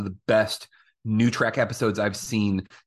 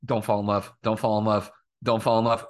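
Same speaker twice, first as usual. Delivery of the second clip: lower, muttered warning to herself; low self-warning; 4 semitones lower than usual. Retold or imitated. La'an warning herself about Kirk: low, muttered. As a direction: chant it under your breath. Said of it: "La'an the whole time is just like".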